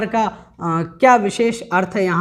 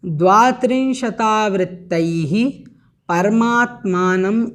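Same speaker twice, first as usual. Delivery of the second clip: the prose order read slowly and deliberately; measured teaching recitation; 2 semitones lower, slower than usual. Shown as a demonstration. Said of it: "इसका अन्वय क्या बनेगा".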